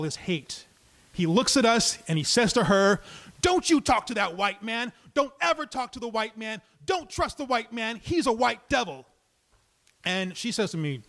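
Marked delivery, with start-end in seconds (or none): 3.4-9.1 a higher put-on ranting voice; angry stranger. Stranger warning the woman off the storyteller, higher ranting voice. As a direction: lecture her like a raving stranger.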